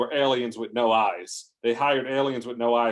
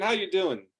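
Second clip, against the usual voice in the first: raised-pitch cheeky hail; calling out; 7 semitones higher than usual. Acted. Trucker hailing a stone titan as he passes, calling out high. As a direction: call it over to him.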